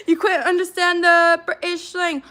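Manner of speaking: laughing. Real, not acted. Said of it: "reading comment laughing".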